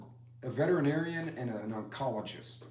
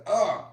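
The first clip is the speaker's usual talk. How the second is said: a sharp loud retold groan of pain, higher; imitated pained groan; 8 semitones higher, 10 dB louder than usual. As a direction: groan as if your hand just split. Daughter splits her hand.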